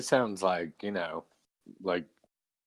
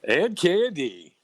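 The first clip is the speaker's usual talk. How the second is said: drawn-out, louder MC call; slow MC announce; 8 semitones higher, 6 dB louder, slower than usual. Pretend. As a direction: stretch the name like a club host. Joining the MC bit.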